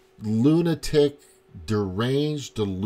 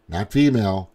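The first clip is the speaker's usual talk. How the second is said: ordinary talk, nothing marked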